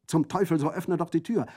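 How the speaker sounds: loud, high, cursing command; angry call. Acted. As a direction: shout the order impatiently. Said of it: "rief Orso". (laut fluchend befehlend)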